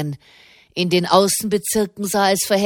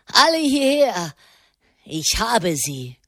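shouting to others; 3 semitones higher than usual. A narrator's reading. Greasy little man summoning the mob, acted shout. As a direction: call the gang over, stretched out. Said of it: "schrie er".

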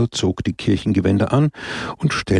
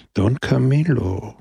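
slow, mild cutting-in by name; interrupting; 3 semitones higher than usual. A narrator's reading. Christ interrupts Don Camillo, gently halting him. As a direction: stretch the name to stop him. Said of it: "unterbrach ihn Christus".

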